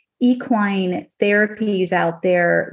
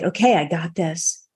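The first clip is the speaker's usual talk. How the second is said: calm relief; 2 semitones lower than usual. Retold or imitated. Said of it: "I just got calm".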